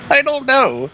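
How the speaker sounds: high, slow, laughing through the words; can't stop giggling; high laughing shrug, slowed. Real, not acted. Giggling, can't explain glitch.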